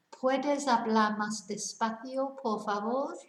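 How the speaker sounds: Puedes hablar más despacio, por favor said slowly with a rise; careful polite Spanish request; slow Spanish demo. Shown as a demonstration. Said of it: "these are the things you can say".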